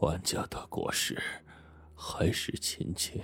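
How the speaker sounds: feeble, low, weak, barely audible near-whisper. In the dark, an unseen person answers a question in a low, weak voice. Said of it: "一个低沉的声音开口了".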